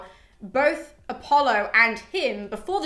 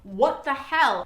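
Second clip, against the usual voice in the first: slow, stunned mock disbelief; shocked; 3 semitones higher, much slower than usual. Artemis reacts to being hit with her bow, shocked. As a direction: act out being taken aback, drawing the words out. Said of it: "Artemis is so shocked".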